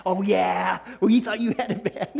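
lightly voiced dismissive grandma; a hint of an unimpressed grandmother; grandma brushing it off. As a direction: shrug off the complaint like tough old grandma. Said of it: "She'd step right on 'em".

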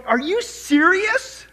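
high, drawn-out disbelief; loud, incredulous outburst, stretched out; blown away. Retold or imitated. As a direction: exclaim it high and slow, utterly astonished. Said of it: "I was blown away because I'm going".

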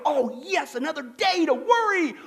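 loud sarcastic glee; sarcastic eager worrier. Retold or imitated. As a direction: ham up someone thrilled to worry. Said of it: "How many guys ... go".

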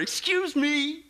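slow, high, drawn-out retort; indignant disbelief. Acted. Preacher answers excuses about trusting God, indignant. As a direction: stretch it out, incredulous.

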